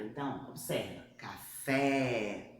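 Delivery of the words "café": CAFÉ with a long, wide-open final é; open vowel. Shown as a demonstration. Teacher showing the Portuguese acute accent, open vowel. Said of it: "ele vai abrir o som da letra".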